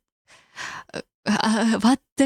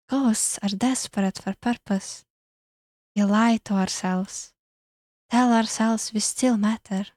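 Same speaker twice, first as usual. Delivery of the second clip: airy, eerie ghost voice; an eerie lonely spirit. Acted. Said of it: "airy voice".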